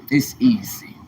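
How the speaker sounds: whispered "It's easy", no voice at all; hushed whisper of "It's easy". Shown as a demonstration. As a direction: breathe "It's easy" like a secret. Repeating "it's easy" several ways.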